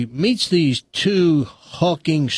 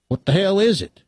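high-pitched, baffled yokel question; puzzled numbskull hillbilly, voice rising; dim hillbilly farm boy; 6 semitones higher than usual. Acted. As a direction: play a clueless country boy, pitched up. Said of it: "numbskull farm boys".

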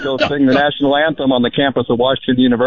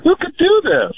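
upset, hammed-up wail. Caller mourns the rapper on air, hammed-up upset. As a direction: cry out in overdone grief. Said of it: "I'm so upset".

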